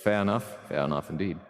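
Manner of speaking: badly faked British accent; hammy fake British, streamer's playful attempt. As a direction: put on an unconvincing British accent. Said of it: "of bad British accent".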